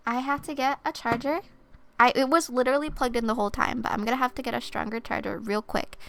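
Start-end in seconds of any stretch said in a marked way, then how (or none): 2.0-6.0 flustered. Real, not acted. Flustered about dead phone.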